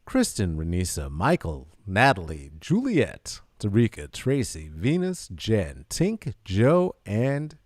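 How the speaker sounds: talking through a mask, all in one breath; hollow voice behind a mask, one breath. Real, not acted. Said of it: "Did that all in one breath with my mask voice".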